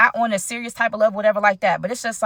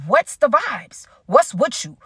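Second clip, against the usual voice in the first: slow, pointed question; 3 semitones higher, slower than usual. Real, not acted. Repeats question slower, pointedly.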